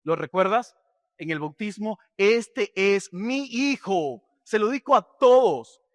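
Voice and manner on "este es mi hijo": fatherly declaration. Acted. God the father speaks at baptism.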